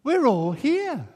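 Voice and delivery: high loud call from the dark. Retold or imitated. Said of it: "a voice from the darkness calls out".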